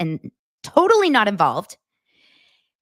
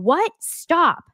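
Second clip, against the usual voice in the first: shocked stop; 8 semitones higher, 4 dB louder than usual. Retold or imitated. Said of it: "Jen is saying".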